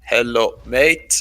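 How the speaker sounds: lightly mimicked Vietnamese-accented English, "mate" said as "mayt"; imitating Vietnamese newcomer. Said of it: "he's like".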